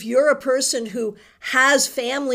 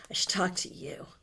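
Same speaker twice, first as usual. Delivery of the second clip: soft whisper to herself; whispered aside; 4 semitones lower, 12 dB quieter than usual. Real, not acted. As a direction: murmur it under the breath as a private note. Repeats the line to herself.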